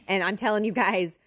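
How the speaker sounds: ordinary talk, nothing marked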